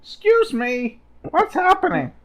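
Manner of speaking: loud, high call out; yelling. Acted. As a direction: call out to the passing soldiers. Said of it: "I yell out".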